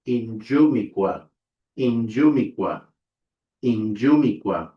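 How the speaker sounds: Injumiqua with a voiced j after n; pronunciation demo. Shown as a demonstration. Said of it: "which is pronounced".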